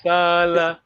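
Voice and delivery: "Sala" with the first "a" held long; long vowel. Shown as a demonstration. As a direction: stretch the first vowel, "Saala". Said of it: "make sure you got the long vowel".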